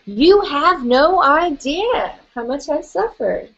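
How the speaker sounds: slow, finger-wagging self-pity, hammed up; mock indignant scolding. Tapping coach has group voice their grievance with mock indignance. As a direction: wag a finger and milk the suffering. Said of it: "Go ahead and say that. Shake your finger".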